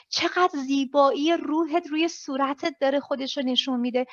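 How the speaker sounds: empowering praise. Acted. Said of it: "باید تمام کلمات و ابریویشن های ایمپاور".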